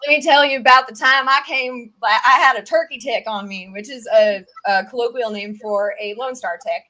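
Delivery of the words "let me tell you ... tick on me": put-on Southern accent. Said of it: "sorry, my Southern accent".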